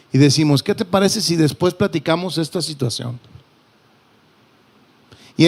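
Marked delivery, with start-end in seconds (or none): 0.6-3.2 softly patient, a touch quieter; calmly defusing a family argument. Retold or imitated. Pastor voicing a calm reply to an argument, gently patient. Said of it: "con una actitud de mucha paciencia".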